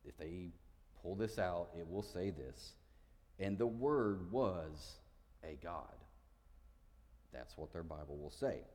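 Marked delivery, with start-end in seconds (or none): 3.4-5.9 slow, measured quote of the wrong verse; mock-reading the flawed translation, slow; slow deliberate reading. Shown as a demonstration. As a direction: read slowly, leaning on word. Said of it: "In their incorrect Bible translation".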